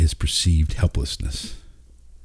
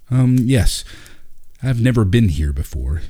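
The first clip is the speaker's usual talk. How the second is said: sheepishly; 4 semitones higher than usual. Acted. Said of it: "he said sheepishly".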